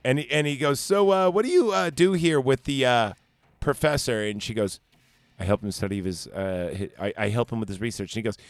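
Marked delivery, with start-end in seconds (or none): 0.8-4.2 acted questioning suitor. Acts out man questioning girl. 5.4-8.1 acted soft reply. Acts out the girl's soft reply.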